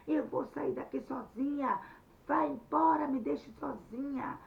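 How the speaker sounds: loud, high angry shout; furious shouting. Acted. Anete in the ditch shouting Luiz away, furious yell. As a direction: drive him away with your yelling. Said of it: "Ela gritou tanto, falou bem alto".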